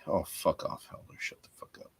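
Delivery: whispered shush-off; hushed swearing. Real, not acted. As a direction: hiss it at a friend.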